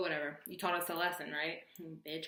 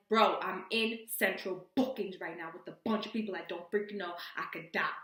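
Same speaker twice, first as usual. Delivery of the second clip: louder, emphatic retold plea; exasperated outburst; 6 dB louder than usual. Caller telling friend she is in central booking, exasperated outburst. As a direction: punch it out to get through to a friend.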